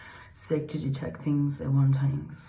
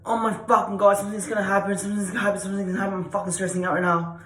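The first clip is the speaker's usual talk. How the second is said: high, frantic panicked rush; stressed out, panicking; 4 semitones higher, 5 dB louder, much faster than usual. Shown as a demonstration. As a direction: pile the phrases up in a loud-starting panic. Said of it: "when we stress out, we're like".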